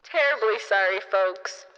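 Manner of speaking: mock gate agent on a crackly PA; airline intercom announcement. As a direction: drone it deep and muffled over the intercom. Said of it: "I hear on the intercom".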